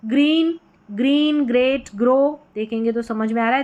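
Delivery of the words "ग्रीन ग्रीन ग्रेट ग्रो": "ग्रीन, ग्रेट, ग्रो" loud with a strong throat GR; teacher's emphatic demo of GR in "ग्रीन, ग्रेट, ग्रो"; throaty GR. Shown as a demonstration. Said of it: "यानी गले से".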